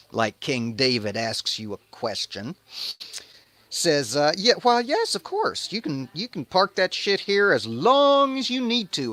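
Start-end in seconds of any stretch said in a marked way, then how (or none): 4.4-9.1 high, loud nervous yes-man; higher, louder mock-nervous agreement; flustered Obed Edom. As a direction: stammer eagerly like a scared host.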